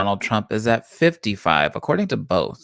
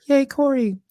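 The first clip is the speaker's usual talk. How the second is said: excited cheer. Real, not acted. Cheering for a favoured winner.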